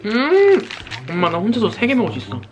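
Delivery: ordinary talk, nothing marked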